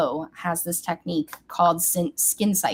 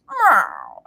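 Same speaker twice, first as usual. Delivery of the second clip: mock meow; 5 dB louder than usual. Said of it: "cat on TikTok that goes".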